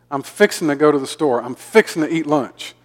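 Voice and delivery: "fixin' to" merged into one word; Southern run-together words. Shown as a demonstration. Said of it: "we tend to mash up several words".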